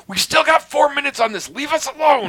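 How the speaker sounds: high, loud mock snap at the kid; high squeaky mock scold; mock snippy parent. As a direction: play the fed-up parent shooing him away. Snapping at brother during practice.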